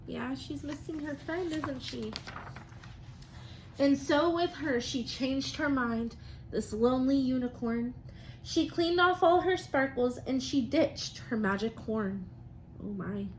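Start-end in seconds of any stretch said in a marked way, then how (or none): 3.8-12.2 lively, sing-song storybook reading; reading to children. Acted. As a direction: read it like a rhyming picture book to the class. Teacher reads picture book aloud.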